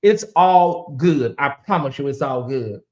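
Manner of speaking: said slowly, each word leaned on; slow and pointed, all good; slow, drawn-out reassurance. Shown as a demonstration. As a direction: stretch it out slowly, knowingly. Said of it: "I'ma say it like that".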